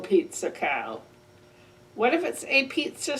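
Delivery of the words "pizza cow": lower, slow and heavy; low slow greeting. Acted. Reading aloud to kids, low slow cow greeting. After the moo.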